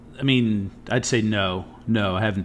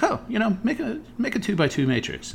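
high-pitched mock-casual boss; high, put-on boss voice; 13 semitones higher than usual. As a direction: imitate the boss lightly setting a test, pitched way up. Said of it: "He's like".

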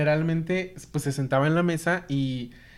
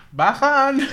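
much higher, louder shout; calling out to stop; 10 semitones higher, 7 dB louder than usual. Retold or imitated. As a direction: yell it to the driver. Calling to Mexican bus driver.

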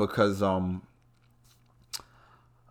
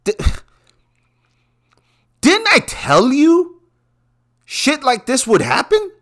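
laughing gloat; 13 semitones higher, 3 dB louder than usual. Real, not acted. Host to traders, gloating through laughter that he warned them. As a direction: cackle through a told-you-so.

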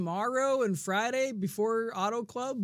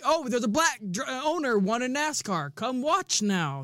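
higher-pitched mock hype, slowing on the last words; mock promoter pitch; 4 semitones higher than usual. Podcast host mimicking NASCAR's diversity push, mock promotional pitch. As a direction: imitate a promoter's eager sales pitch. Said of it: "They're just trying to say".

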